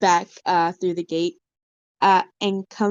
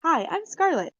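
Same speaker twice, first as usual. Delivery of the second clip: strong feminine voice; 8 semitones higher, 4 dB quieter than usual. Acted. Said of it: "stronger but feminine voice".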